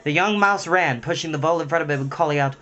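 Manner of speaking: story narration. A narrator's reading. Reading a Redwall chapter aloud to listeners, animated narration. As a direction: read the adventure out with energy.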